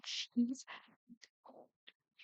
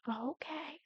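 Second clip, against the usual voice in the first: higher, lightly voiced child giving in; small, higher-pitched mock compliance; kids' meek agreement; 4 semitones higher than usual. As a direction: imitate kids agreeing with dad. Children meekly answering their father.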